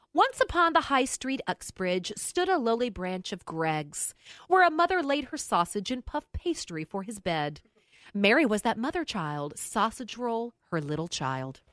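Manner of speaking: melody read as spoken verse; read-out carol verse. Retold or imitated. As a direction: recite the carol without singing, falling away at the end. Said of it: "but I'll read it".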